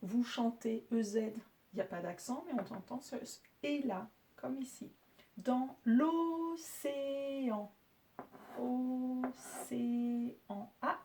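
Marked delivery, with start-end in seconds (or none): 5.4-10.7 "océan" drawn out very slowly, each syllable apart. Shown as a demonstration. Teacher sounding out "océan" for pupils, slow. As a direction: stretch out "océan" so every syllable is heard. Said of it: "la dernière lettre de la syllabe".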